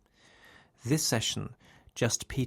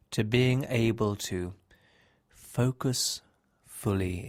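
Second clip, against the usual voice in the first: slow hypnosis voice with long pauses; hypnotic relaxation. Acted. Hypnotist easing a listener into sleep, slow guided-relaxation voice. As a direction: guide them slowly towards sleep, phrase by phrase.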